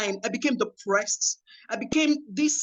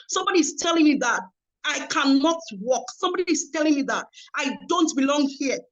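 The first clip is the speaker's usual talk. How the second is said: indignant outcry; 2 semitones higher than usual. Retold or imitated. Rita protesting the rejection letter, hurt and indignant. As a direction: demand an answer, hurt and indignant. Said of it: "I cried".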